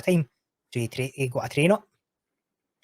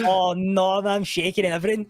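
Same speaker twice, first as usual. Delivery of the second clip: retold nerves; 6 semitones higher, 4 dB louder than usual. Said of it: "I'm sweating at this time".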